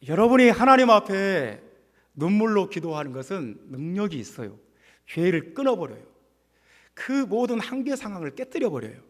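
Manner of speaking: impassioned sermon delivery, opening loud; emphatic preaching. Real, not acted. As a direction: preach it with force to the congregation. Preaches with rising force.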